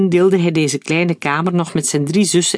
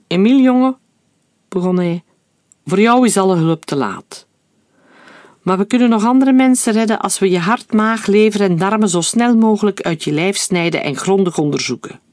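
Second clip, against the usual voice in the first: high, louder mock-menacing doctor; sinister doctor; 4 semitones higher, 3 dB louder than usual. Doctor faking a menacing threat to the malingering boy. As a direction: ham up the villain to scare the boy.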